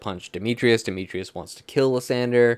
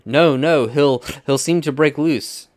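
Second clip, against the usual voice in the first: loud, raised-pitch acted protest; arguing; 5 semitones higher, 7 dB louder than usual. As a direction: play it as a heated stage argument. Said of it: "they're all arguing at this point".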